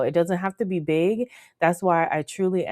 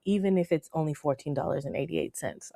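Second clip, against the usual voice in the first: usual speaking voice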